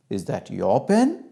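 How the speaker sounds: drawn-out parental disapproval; disapproving mother. Acted. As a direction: ask it slowly as a veiled correction. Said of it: "she has expressed disapproval".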